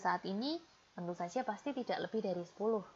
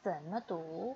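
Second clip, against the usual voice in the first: slow, clear Mandarin, each syllable spaced for repeating; slow model reading; 5 dB louder, much slower than usual. Shown as a demonstration. Teacher modeling for students to repeat, slow and clear. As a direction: read it slowly so students can copy. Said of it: "Ikuti Lao She ya".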